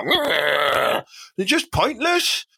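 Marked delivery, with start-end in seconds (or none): 0.0-1.0 drawn-out penguin "grrr"; imitated penguin noise. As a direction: mimic a silly penguin honk-growl. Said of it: "and then just go".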